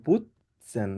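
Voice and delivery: "putzen" with a soft dental t, not a hard ট; soft Bengali t sound. Shown as a demonstration. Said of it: "ত উচ্চারণ করুন".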